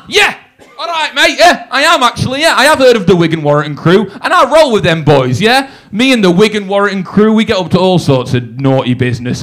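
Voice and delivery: playing up the tough act; mock tough bravado. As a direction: brag like you roll with a gang. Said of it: "I wanna look tough and stuff".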